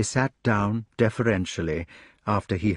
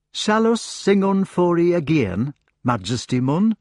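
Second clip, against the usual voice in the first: eager rustic hedgehog; 6 semitones higher than usual. Acted. Hedgehog offers to sing.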